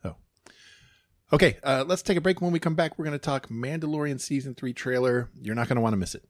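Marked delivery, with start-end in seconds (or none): 1.3-6.2 bright upbeat break announcement, louder; podcast host announcer. Acted.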